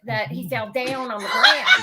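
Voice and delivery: slow drawl through laughter; laughing Southern imitation. Mother laughing as she mimics son's accent. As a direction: drawl it while cracking up. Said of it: "because I was laughing so hard".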